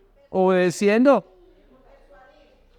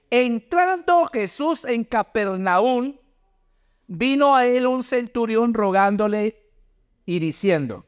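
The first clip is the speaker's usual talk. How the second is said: slow, measured Bible reading; scripture read-aloud; 2 semitones higher, slower than usual. Real, not acted. Preacher reading Mateo to the congregation, slow scripture reading. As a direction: draw out each phrase of the verse.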